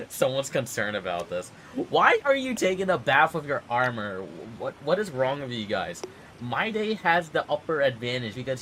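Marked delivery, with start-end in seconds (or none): 1.9-6.0 incredulous outburst. Real, not acted. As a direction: blurt it out, baffled. Streamer exclaims at game characters.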